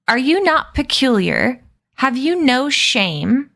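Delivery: rising indignant tirade; livid. Acted. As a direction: scold them, shocked at their shamelessness.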